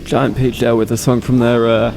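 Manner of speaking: echoey voice with studio reverb. Real, not acted. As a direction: voice drenched in hall echo. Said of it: "I've still got the reverb on".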